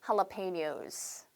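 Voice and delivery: jalapenos very slowly, "ha-la-pe-nyos" with an h. Shown as a demonstration. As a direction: spell out jalapenos syllable by syllable. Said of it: "한 번 더 할게요". (jalapenos를 "할라페뇨스"로 아주 천천히)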